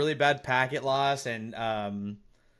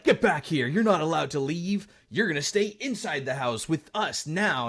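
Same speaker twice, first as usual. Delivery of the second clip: retold yell; 4 semitones higher than usual. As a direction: play the friend bossing him back inside. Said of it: "yelling at me".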